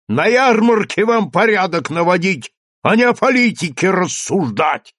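loud, high yell. A narrator's reading. Teacher yells at the mayor, loud and high. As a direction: howl it at the mayor. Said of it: "вопил учитель".

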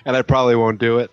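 quick unvoiced whisper; whispered teasing reply. Real, not acted. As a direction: whisper it back as a joke.

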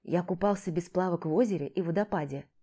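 plain reading voice

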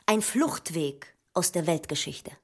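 slow, deliberate statement with a pause midway; slowly, as if considering it; measured pronouncement. Acted. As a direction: weigh each word, unhurried. Staged text, weighing an idea.

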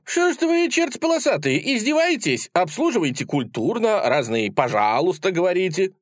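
high-pitched, indignant tirade; angry outburst. A narrator's reading. Lad gets cross with the sellers, angry outburst. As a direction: burst out high, scolding the sellers. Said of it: "Парень начинает сердиться".

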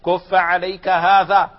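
slow and loud, هذا stretched and stressed; quoting the Prophet emphatically; slow emphatic quote. Retold or imitated. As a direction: deliver كف عليك هذا slowly with weight on هذا. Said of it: "ماذا قال؟".

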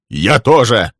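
sudden blurted cry of protest. A narrator's reading. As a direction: blurt it out before he can stop himself. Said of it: "вырвалось у Лесли".

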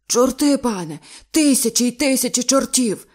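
high, loud panicked cry; terrified cry. Acted. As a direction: shout it in horror. Diver terrified of devils.

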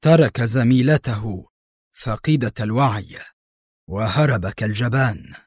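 a hint of strained nerves; tense. A narrator's reading. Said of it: "في توتر".

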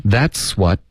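"That's what" as that-swuh; linked, dropped T. Shown as a demonstration. Teacher showing the omission, "That's what" without final T. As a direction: slide ts into "what" and leave off its final T. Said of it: "然后what的特省略".

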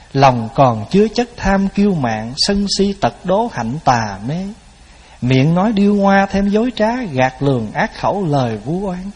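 measured, slow verse recitation; prayer recitation. Shown as a demonstration. Monk demonstrating a verse to Buddha for listeners, measured chanting recitation. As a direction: recite a repentance verse line by line, evenly paced.

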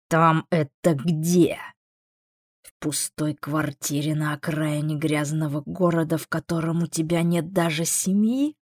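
lightly voiced, mocking demon; a hint of a cool demon; taunting demon. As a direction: needle them with measured questions. Amon taunts the girl.

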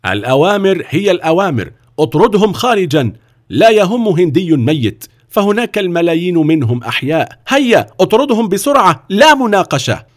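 high, loud scornful orders; a cruel director barking at guards; contemptuous. Acted. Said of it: "نظر إليه في احتقار".

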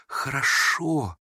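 slow, hushed, embarrassed hurry to agree; ashamed. A narrator's reading. Young woman backing down before the prince, mildly abashed. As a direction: shrink from your own words. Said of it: "ужасно застыдившись".

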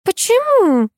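high, loud bewildered question. A narrator's reading. Alla baffled by her husband's maths, high bewildered. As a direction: ask it high and lost. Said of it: "растерялась Алла".

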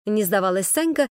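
usual speaking voice

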